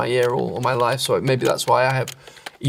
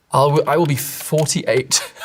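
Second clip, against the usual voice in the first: amused disbelief; 3 semitones higher, slower than usual. Real, not acted. Laughs at his future age.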